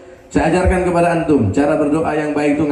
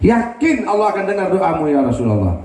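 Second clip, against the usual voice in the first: angry plea; 5 semitones higher than usual. Retold or imitated. Zaid urging the Prophet to curse them, heated and high. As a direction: urge a curse in a heated retold voice. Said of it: "Marah Sayyidina Zaid".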